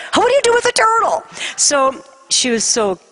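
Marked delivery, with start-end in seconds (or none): 0.1-1.2 high, fast, flustered question; exasperated mom, pitch shooting up; bewildered. Retold or imitated. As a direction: blurt it out at a total loss. Mother baffled by new pet.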